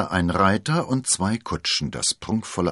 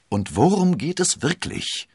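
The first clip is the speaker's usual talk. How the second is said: urgent question; 11 semitones higher, 5 dB louder than usual. A narrator's reading. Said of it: "fragte D'Artagnan".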